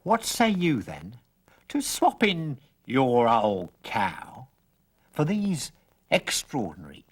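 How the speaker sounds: put-on coaxing old stranger. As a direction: sell the beans like a sly old peddler.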